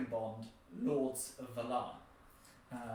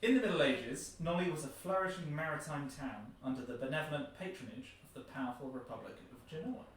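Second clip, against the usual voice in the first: measured storybook narration; reading intro text aloud. Real, not acted. Presenter reading a board game's opening text, narrated. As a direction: read it out as a clear historical introduction.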